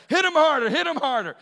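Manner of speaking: high, loud retold grandmother shout; imitating a yell. Grandmother yells at mom to hit harder, loud shout. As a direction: shriek it like the grandmother cheering the beating on.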